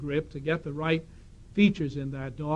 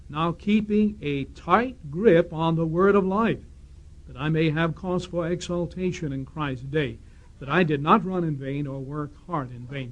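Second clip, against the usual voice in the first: scripture reading. Acted. Speaker reading Philippians to the congregation, measured scripture reading. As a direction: read the Bible text out deliberately to the hall.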